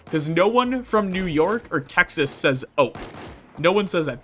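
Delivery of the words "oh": "oh" as Midwesterners say it. Shown as a demonstration. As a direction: say "oh" with a Midwestern accent. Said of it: "that is a Midwestern thing".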